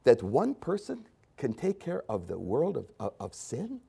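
soft, menacing whisper-like voice; soft, menacing Satan voice; sinister Satan. Retold or imitated. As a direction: hiss doubt into his ear quietly. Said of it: "Satan literally says to Jesus".

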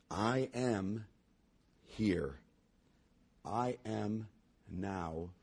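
measured, rising then falling recitation; poem reading. Acted. Preacher reading the poem to the congregation, measured recitation.

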